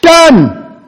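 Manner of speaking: a sudden high, loud "Done!"; mock triumphant grant; imagined Jesus granting. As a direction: snap it out like instant approval. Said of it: "expecting Jesus to say".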